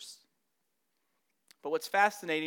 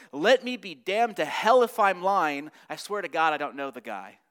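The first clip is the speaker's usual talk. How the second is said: vehement oath; 8 dB louder than usual. Shown as a demonstration. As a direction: curse yourself to convince the crowd. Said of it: "in order to get the effect, it would be something like this".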